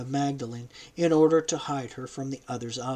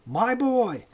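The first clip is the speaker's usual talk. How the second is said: high, louder anguished cry; heartrending cry; 10 semitones higher, 5 dB louder than usual. A narrator's reading. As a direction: cry out to a lost son. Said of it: "heart-rent-reading voice".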